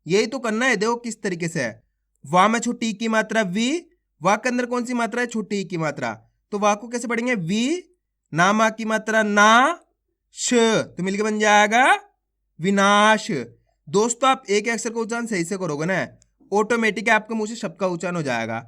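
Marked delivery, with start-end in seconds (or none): 2.2-13.3 stretched-out syllable calling, each syllable punched; phonics drill. Shown as a demonstration. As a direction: classroom sounding-out chant. Sounding out syllables into words.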